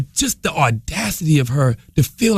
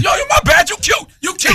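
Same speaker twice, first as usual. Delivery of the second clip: retold nervous backpedal; 3 dB louder than usual. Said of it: "Guy goes".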